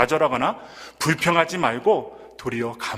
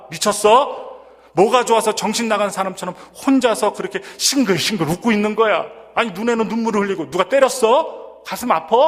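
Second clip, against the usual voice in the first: higher, louder alarmed questions; startled husband; 5 semitones higher, 3 dB louder than usual. Retold or imitated. Husband startled to find his wife praying at night, higher and louder. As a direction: blurt it out like a husband shocked awake. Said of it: "놀란 남편은요".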